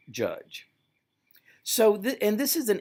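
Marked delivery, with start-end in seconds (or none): 0.1-0.7 a hushed, dramatic "judge"; whispered final word. Acted. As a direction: drop the last word to a whisper. Dramatic close of Franklin's quote.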